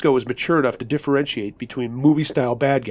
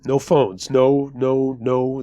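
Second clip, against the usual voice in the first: monotone, repetitive gunman's muttering; muttered refusal; much slower than usual. A narrator's reading. Gunman refusing a phone call, muttering. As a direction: mutter the refusal over and over on one note. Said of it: "the guy started muttering".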